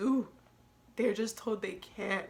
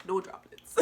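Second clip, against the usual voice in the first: laughing. Real, not acted. Joking about brother's dry eyes.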